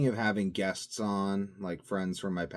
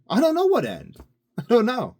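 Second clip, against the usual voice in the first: laughing; 10 dB louder than usual. Real, not acted. Laughing at himself.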